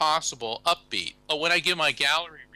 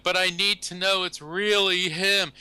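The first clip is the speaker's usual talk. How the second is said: a hint of a pleading old lady, higher, slow; tearful old lady; 6 semitones higher, 3 dB louder than usual. Widow begging medium for proof, lightly tearful plea. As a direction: plead through tears, lightly voiced.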